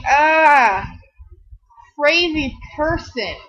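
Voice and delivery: shouted 'Ah' then 'crazy person'; startled yell. Retold or imitated. Stranger of another ethnicity startled by her, mock yelp.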